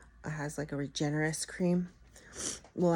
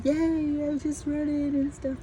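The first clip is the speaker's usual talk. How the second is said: mock cheerful yay; 9 semitones higher than usual. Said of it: "And I was just like".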